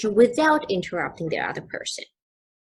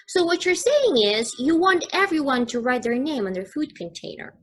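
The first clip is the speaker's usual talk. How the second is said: teacher voicing a listener, higher on saying; example listener reply; 5 semitones higher than usual. Shown as a demonstration. Teacher acting a listener's summary, lightly higher. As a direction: read it as a model reply, rising on saying.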